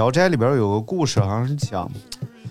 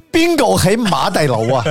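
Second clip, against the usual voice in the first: higher, louder Cantonese call; 8 semitones higher, 4 dB louder than usual. Retold or imitated. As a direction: call out at the port for Ma. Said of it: "这个广东人一到口岸上".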